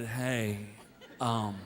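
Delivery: low, soft, hesitant mumble; mortified near-whisper with nervous laughs; embarrassed hushed asking. Retold or imitated. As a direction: ask like you hope nobody hears. Embarrassed dad asking clerk quietly.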